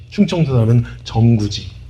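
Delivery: ordinary delivery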